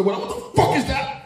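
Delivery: high stammered what the fuck; mock outrage. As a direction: sputter in disbelief. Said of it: "I used to swear".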